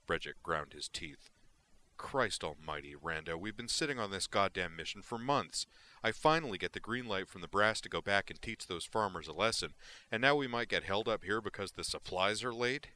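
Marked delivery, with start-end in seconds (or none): 2.0-12.9 angry. Acted. Brejik angry at Rando.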